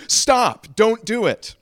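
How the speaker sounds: high, loud plea to halt; urgent cry. Acted. First man to the jumper on the bridge, urgent high cry. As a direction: cry out to stop someone in their tracks.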